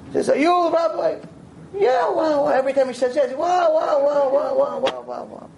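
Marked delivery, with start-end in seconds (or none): 0.3-2.5 put-on much higher, awed old lady voice; amazed old woman. Old woman meets the Rav. 3.3-5.5 put-on amazed old woman. Old woman keeps repeating wow.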